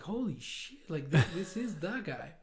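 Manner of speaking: mildly awed, imitating your own nerves; nervous awe. Recalling seeing the big boss, nervous awe. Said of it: "super nervous".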